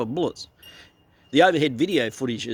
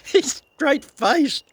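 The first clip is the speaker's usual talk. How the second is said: laughing; 13 semitones higher, much slower than usual. Real, not acted.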